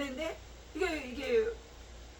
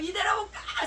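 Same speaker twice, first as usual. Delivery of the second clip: a mild, higher mock shout; imitating her cry, lightly raised; retold shout; 6 semitones higher, 4 dB louder than usual. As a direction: lift it up, half-acted. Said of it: "소리 지르시고".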